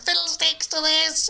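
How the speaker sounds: very high, slow, loud comic yell; hammed-up shout. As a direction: bellow it like a wronged nerd. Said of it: "And he went".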